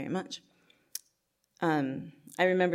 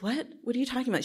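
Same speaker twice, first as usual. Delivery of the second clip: put-on confused kid; 9 semitones higher, much faster than usual. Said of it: "And I was like".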